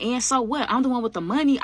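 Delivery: mock arrogant boast. Retold Callie boasting about money.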